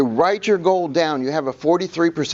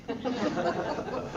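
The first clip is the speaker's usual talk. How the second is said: short laugh; 5 semitones higher, 12 dB quieter than usual. Real, not acted. Laugh after car story.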